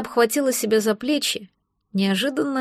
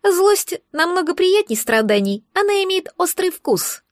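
higher, pleased little creature voice; smug egg creature; 8 semitones higher than usual. Acted. Magic egg gloats that the girl stopped crying, higher and smug. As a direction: sum it up with satisfaction.

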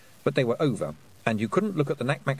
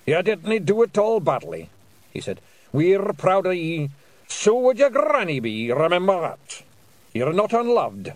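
proud, kind little Scottish warrior; Scottish pixie voice; 9 semitones higher, 6 dB louder than usual. Acted. Feegle voice.

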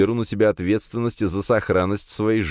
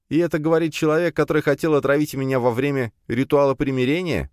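higher, fast, sneering retort; a quick scornful jab at the rival; mocking smirk; 9 semitones higher than usual. A narrator's reading. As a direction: toss it back with a smirk. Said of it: "усмехнулся я".

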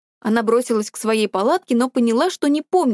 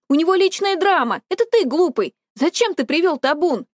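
angry accusation; 6 semitones higher than usual. A narrator's reading. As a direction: throw the blame back at him. Sister shouts at brother.

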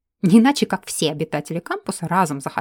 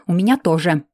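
irritated hiss of a retort, a bit louder; 2 semitones lower, 5 dB louder than usual. Acted. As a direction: snap it back through pain. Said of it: "прошипела я". (раздражённо прошипеть в ответ)

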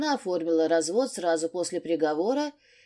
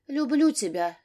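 higher, a touch of tears; tearful confession; 7 semitones higher than usual. A narrator's reading. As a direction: confess love while crying a little. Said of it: "плача призналась Маша". (сквозь слёзы, чуть выше)

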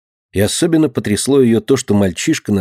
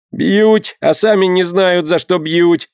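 whimpering; 7 semitones higher, slower than usual. A narrator's reading. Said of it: "захныкал мальчишка".

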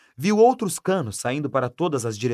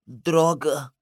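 usual speaking voice

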